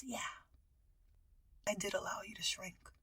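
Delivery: quiet, deadpan confession; straight-faced admission. Retold or imitated. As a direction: admit it softly, without apology. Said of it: "with a straight face".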